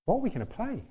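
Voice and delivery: high-pitched mock panic; panicked wondering. Invited player lying in bed before the big gig, high panicked question. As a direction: let the question shoot up in worry. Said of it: "and I'm thinking".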